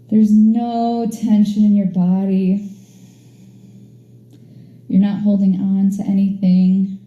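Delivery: soothing yoga relaxation cue; guided relaxation. Acted. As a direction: ease them into rest, unhurried. Leads a Shavasana relaxation.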